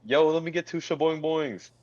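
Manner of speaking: retold yell. Man ordering from ballgame vendor, retold as a mild yell. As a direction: imitate someone hollering an order. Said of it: "he yells out loud".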